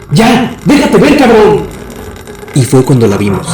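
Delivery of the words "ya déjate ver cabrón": high-pitched shout at an unseen pursuer; shouted demand, voice pitched way up. A narrator's reading. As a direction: yell it out high, challenging whoever follows. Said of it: "Ernesto volteó y gritó".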